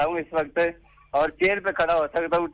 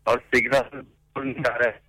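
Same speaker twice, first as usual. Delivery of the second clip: breaking up phone line; corrupted glitchy audio; 2 semitones lower, slower than usual. Real, not acted. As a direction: voice cutting in and out. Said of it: "आपकी आवाज़ cut cut के आ रही है".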